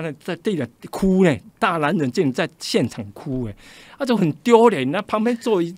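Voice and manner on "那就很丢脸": embarrassed. Retold or imitated. Grown men crying in public.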